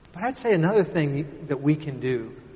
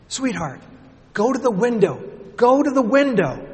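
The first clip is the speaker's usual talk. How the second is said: urgent calling father, louder; father yelling; 9 semitones higher, 7 dB louder than usual. Retold or imitated. Father shouting up to his trapped daughter, urgent. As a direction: call her to the window through the smoke. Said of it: "her father yelled to her".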